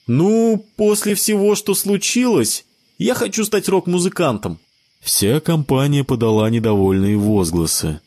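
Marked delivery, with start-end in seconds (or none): 0.1-4.6 put-on a boy sharing his dream, high; dreamy child. A narrator's reading. Sebastian tells friends his plan, high child voice.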